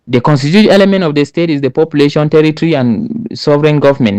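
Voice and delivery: rushed, straight into the answer; blurted answer. Shown as a demonstration. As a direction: rattle it off fast with no greeting. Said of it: "No, you don't say so".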